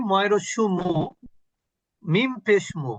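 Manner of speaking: মু বলা গোল ঠোঁটে ছোট উ দিয়ে; মিম পেশ মু, গোল ঠোঁটে মু; demo syllable mu. Shown as a demonstration. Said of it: "তা আমি মু বলবো". (শিক্ষকের মতো মু উচ্চারণ দেখানো)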